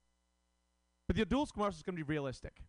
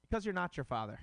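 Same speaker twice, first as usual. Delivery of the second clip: commercial tagline; 4 semitones higher than usual. Pretend. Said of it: "look at the camera and say".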